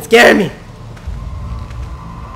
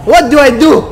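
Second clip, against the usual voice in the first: raised pitch, exasperated panic; frantic; 5 semitones higher than usual. Real, not acted. Player desperate to survive the attack, frantic.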